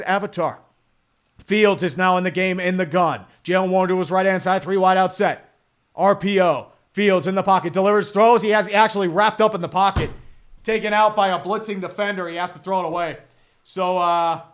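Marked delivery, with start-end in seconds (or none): 1.4-13.2 brisk broadcast call, punchy; play-by-play. Acted. Streamer calling the Fields snap for chat, announcer-style. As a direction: narrate the snap like a sportscaster.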